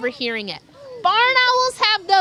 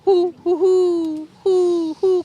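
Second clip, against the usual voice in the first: great horned owl hoots; much slower than usual. Shown as a demonstration. Showing kids how the great horned owl hoots. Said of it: "great horned owls, they go".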